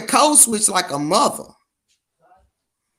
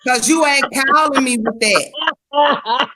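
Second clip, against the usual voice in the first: protesting; 6 semitones higher, slower than usual. Real, not acted. Laughing protest to teasing friend.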